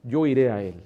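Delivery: quoting David. Retold or imitated. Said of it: "como dijo David".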